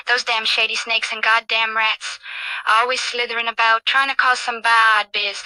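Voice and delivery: lightly voiced cocky British street character; lightly played watchdog, warning off troublemakers; streetwise Ozzy Ostrich.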